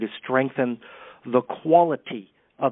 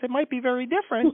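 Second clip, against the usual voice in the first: very high-pitched voice, pitched way up; 11 semitones higher than usual. Showing how a voice could sound different: high-pitched voice. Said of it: "if I had a high voice like this".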